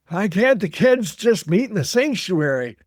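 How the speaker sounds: a hint of a cranky old elder; old man Todd. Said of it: "I will do my old man voice".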